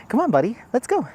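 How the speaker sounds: high, sing-song coaxing. Real, not acted. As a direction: coax the dog along sweetly. Coaxing the dog on the hike.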